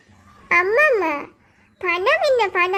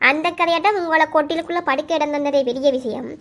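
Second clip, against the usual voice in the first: scornful scolding. Acted. Sister berating the one begging for help, scornful. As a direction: berate a poor relation who wants too much.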